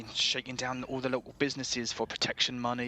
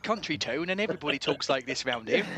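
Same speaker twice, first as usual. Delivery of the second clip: put-on local country accent; 4 semitones higher, 3 dB louder than usual. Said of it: "local accent".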